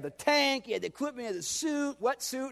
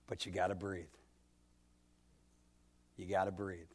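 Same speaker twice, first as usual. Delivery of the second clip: hushed refrain; 11 semitones lower, 11 dB quieter than usual. Acted. Sermon refrain brought down low.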